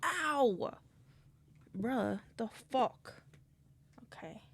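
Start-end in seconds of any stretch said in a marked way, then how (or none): 0.0-0.7 sharp yelp of pain; a sudden yelp from a cramp. Real, not acted. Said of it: "I'm cramping".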